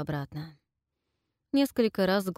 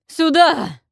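high, loud call for help; desperate shout; 10 semitones higher, 14 dB louder than usual. Acted. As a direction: yell it at full voice. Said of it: "крикнул он во весь голос".

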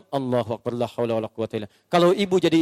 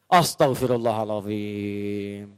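shocked husband; 9 semitones lower, 3 dB quieter, much slower than usual. Acted. Husband tastes salty noodles.

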